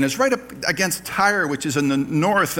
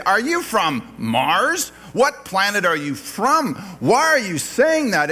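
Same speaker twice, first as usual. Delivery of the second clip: slow, higher, scornful taunting question; condescending mock question; 4 semitones higher, slower than usual. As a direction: talk down to someone you disagree with. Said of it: "kind of a pejorative, kind of a condescending".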